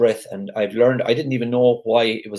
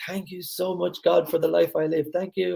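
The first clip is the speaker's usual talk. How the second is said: mock ecstatic scream; 9 semitones higher than usual. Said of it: "just screaming out loud".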